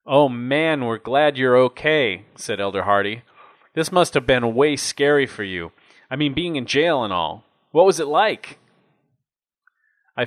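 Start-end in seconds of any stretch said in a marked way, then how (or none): 0.1-8.6 put-on a higher, louder, eager young elder; lightly voiced buddy, glad and nosy; eager young missionary. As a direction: gush with relief and curiosity. Narrator voices Elder Hardy.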